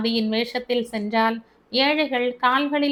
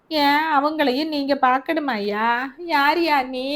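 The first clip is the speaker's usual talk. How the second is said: higher, sharp challenge; suspicious mother; 4 semitones higher than usual. Acted. Mother challenging the stranger Albert, sharp and suspicious. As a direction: demand who he is.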